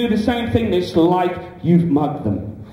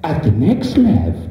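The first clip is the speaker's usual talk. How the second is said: sat-nav voice. Pretend. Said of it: "does the sat-nav go".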